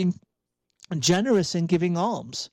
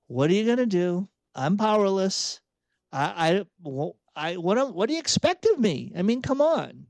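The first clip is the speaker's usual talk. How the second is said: powerless, exasperated protest, pitched up; helpless question; 3 semitones higher than usual. Acted. Catholic shrugging off responsibility by asking what to do, helpless exasperation. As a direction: throw up the question as a helpless excuse. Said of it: "are you gonna say it as a question".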